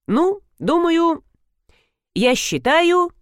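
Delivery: high, slow, unsure voice; hesitant mumble. A narrator's reading. Husband, put on the spot, slow hesitant high voice. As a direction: stall for words.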